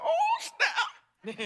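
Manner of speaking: very high, drawn-out excitement; retold thrilled reaction. Storyteller relives getting invited in, high giddy reaction. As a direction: replay giddy delight in a squeal.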